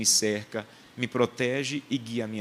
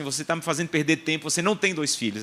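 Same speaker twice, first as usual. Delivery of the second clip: irritated fortune teller; 4 semitones higher than usual. Retold or imitated. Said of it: "ela ficou irritada".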